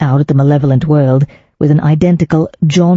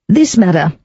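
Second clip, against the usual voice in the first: proclaiming; 5 semitones higher than usual. Acted. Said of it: "she proclaimed".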